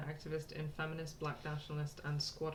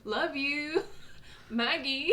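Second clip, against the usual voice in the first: chirpy, higher and slower, reading aloud; bubbly postcard voice; 4 semitones higher, 5 dB louder, slower than usual. Acted. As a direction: read it like an excited girl writing home. Reads postcard in girl's voice.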